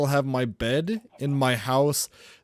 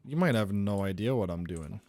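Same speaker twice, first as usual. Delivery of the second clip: low menacing villain; 8 semitones lower, 5 dB quieter, faster than usual. Acted. Villain taunting his friend.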